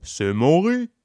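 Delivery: mild tortoise cry of ownership; lightly voiced tortoise exclaiming. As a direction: protest that it's yours, gently. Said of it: "s'exclama la tortue".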